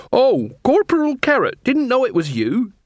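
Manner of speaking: put-on high-pitched old beggar woman; beggar queen, unwheedling. Beggar queen recognises the corporal, high voice without wheedle. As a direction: drop the whine but keep her high voice. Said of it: "The voice was normal now".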